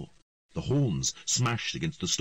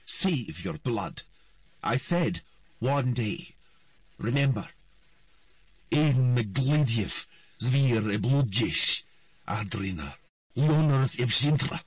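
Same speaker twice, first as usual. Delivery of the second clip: slow, loud, ceremonial queen's voice; solemn royal oath; 5 semitones higher, 5 dB louder, slower than usual. A narrator's reading. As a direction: intone the ancient words like a ritual.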